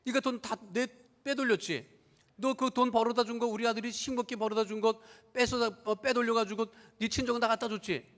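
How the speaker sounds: scolding mother-in-law. Retold or imitated. Drunk mother-in-law mildly scolding her daughter-in-law. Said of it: "뭐라고 구박을 하느냐".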